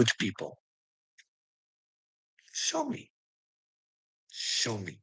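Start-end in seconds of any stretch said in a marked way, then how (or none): 2.5-3.1 a sudden high, soft "Show me."; high dare. Acted. Daring the people who treat him badly, high and soft. 4.3-5.0 "Show me." dropped low and soft; growl-free low, quiet "Show me."; low dare. Acted. Daring the people who treat him badly, low and quiet.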